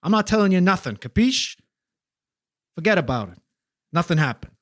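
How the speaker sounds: defensive New Jersey wiseguy; a Jersey rat refusing to talk, New Jersey accent; hammy New Jersey gangster accent. Acted. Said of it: "representing the wonderful diversity of New Jersey accents".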